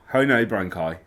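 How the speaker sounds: Belfast accent greeting, lightly voiced. Shown as a demonstration. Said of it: "Is how I start to try and get in my Belfast accent".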